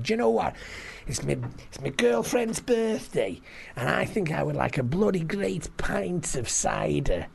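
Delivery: cocky Scouse bar order; cocksure pride. Acted. Jerry ordering at the bar, cocksure. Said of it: "absolute cocksure pride".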